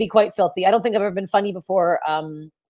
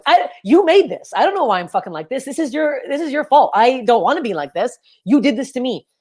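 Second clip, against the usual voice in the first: mock accusing; 4 semitones higher than usual. Mock blaming her parents.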